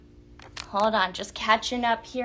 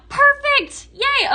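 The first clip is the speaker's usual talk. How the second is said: excited; 8 dB louder, slower than usual. Real, not acted. Host cheers viewer's purchase.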